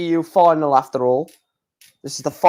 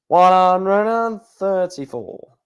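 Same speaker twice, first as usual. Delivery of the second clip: darts score caller; 2 semitones higher, slower than usual. Pretend. Drawn-out caller call.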